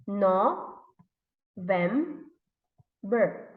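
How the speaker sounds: "No, vem, ber" in three separate beats; long pauses between "No", "vem" and "ber"; syllable by syllable. Shown as a demonstration. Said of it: "how many syllables are there".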